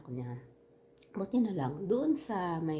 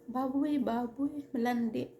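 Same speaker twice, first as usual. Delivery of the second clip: mock insult; 6 semitones higher, slower than usual. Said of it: "iskandaluhin ako".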